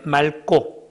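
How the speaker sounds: 맑고 said 말꼬, with ㄹ and tense ㄲ; standard pronunciation. Shown as a demonstration. Teacher checks the answer with students, demonstrating 맑고 as 말꼬. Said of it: "거기 발음 뭐 됩니까".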